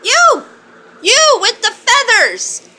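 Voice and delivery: loud, high mock challenge; playful shouting. Real, not acted. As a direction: call out the bird like picking a fight.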